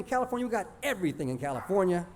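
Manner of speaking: high, insistent rattled-off boast; bragging cousin. Acted. California cousin bragging to little Texas kids, boastful. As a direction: list each thing on a high, sustained pitch. Cousin brags about home in story.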